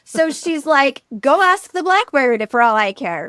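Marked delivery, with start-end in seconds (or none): 1.2-3.3 mock-dismissive toss-off, lightly voiced; flippant brush-off. Grieving mother waving the king away: flippant. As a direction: shrug the king off as if he's a nuisance. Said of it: "she kind of flippantly says it".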